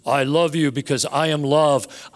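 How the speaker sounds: a hint of a booming, distant deity; powerful God voice. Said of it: "says in some powerful voice from".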